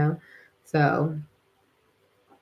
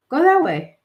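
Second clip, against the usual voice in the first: higher urging; 8 semitones higher, 4 dB louder than usual. Retold or imitated.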